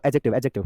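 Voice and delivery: एडजेक्टिव with the d dropped, ejective; silent d. Shown as a demonstration. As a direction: say एडजेक्टिव without any d sound. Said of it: "डी silent करके देख लो". (एडजेक्टिव डी silent करके बोलें)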